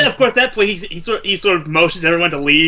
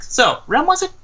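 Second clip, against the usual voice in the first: character voice. Acted. Player voices character to Sasha.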